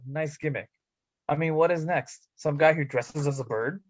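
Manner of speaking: ordinary delivery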